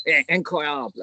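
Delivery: slow, hammed-up French accent on "incroyable". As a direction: stretch out "incroyable" like a mock Frenchman. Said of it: "Whenever you do a French accent".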